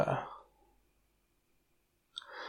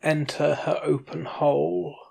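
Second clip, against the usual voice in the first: story narration. A narrator's reading. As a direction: narrate evenly and unhurried.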